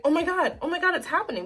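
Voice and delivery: high, loud panicked cry. Retold or imitated. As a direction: blurt it out in sudden panic. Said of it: "I'm just like".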